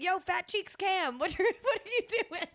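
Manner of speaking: put-on playful nickname call to boyfriend; teasing greeting. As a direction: tease him through a laugh. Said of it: "I'll be like".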